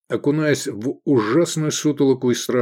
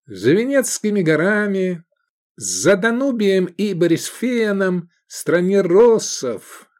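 slow, higher drawn-out tale telling; storyteller voice; 8 semitones higher, 3 dB louder, slower than usual. Acted. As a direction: draw out Венецкими горами like a fairy tale. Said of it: "затянул Эдик голосом сказочника".

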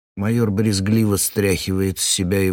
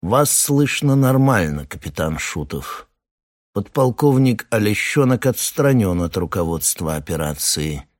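deep calm velvety voice. Acted. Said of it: "глубокий, спокойный, бархатный голос".

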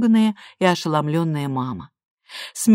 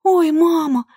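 higher, louder cry of sudden fright; girl crying out to her mother in sudden horror; 11 semitones higher, 6 dB louder, slower than usual. A narrator's reading. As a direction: cry out as if struck by fear. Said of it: "вскричала Лиза во внезапном ужасе".

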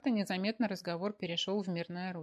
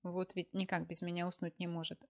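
sighing. Acted. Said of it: "вздохнула Машенька".

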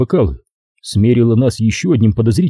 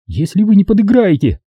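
rattling off; 10 semitones higher than usual. A narrator's reading. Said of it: "затараторила девица".

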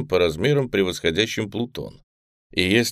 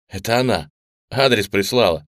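joyful exclamation; 3 semitones higher, 4 dB louder than usual. Acted. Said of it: "радостно воскликнул Коля".

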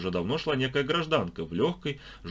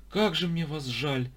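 high, slow wail of pity; girl wailing over the unclipped strangers; lamenting; 8 semitones higher than usual. A narrator's reading. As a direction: mourn for them theatrically. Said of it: "запричитала девица".

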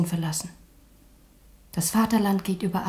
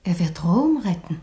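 whispered plea. Acted. Daughter pleads with father.

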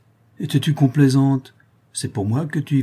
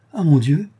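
a louder, higher cry of dismay; shocked cry; 6 semitones higher, 6 dB louder than usual. Acted. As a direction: gasp it out in shame and shock. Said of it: "s'écria Fleur de Marie". (cri de stupeur honteuse)

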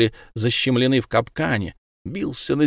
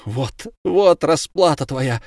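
lightly voiced angry cry; 4 semitones higher, slower than usual. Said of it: "кричала Тория".

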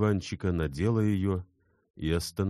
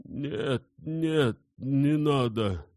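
indistinct; 9 semitones higher, much slower than usual. A narrator's reading. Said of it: "произнёс невнятно Инсаров".

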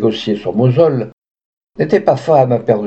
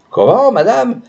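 startled cry; 10 semitones higher than usual. A narrator's reading. Father cries out, stunned by the courtesan's change. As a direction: cry it out, thrown by her. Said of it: "s'écria Houzelot".

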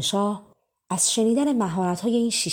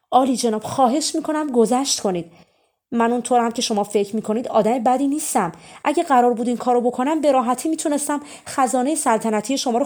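put-on pleading young thief; 3 semitones higher, 5 dB louder than usual. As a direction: talk fast to save his own neck. Simon pleads with the angry king.

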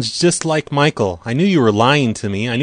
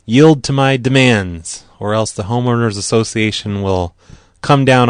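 threatening; 3 dB louder than usual. Pretend. Mock threat on prank call.

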